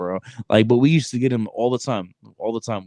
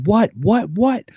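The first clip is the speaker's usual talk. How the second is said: confused what; 11 semitones higher, 4 dB louder, slower than usual. Retold or imitated. Confused recruit on the phone.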